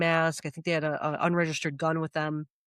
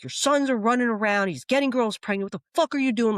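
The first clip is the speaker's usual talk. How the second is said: raised, heated voice telling him off; retold angry rant; 6 semitones higher, 3 dB louder than usual. Reliving yelling at the crackhead uncle, heated. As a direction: scold him like you're fed up. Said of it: "Like, I was pissed".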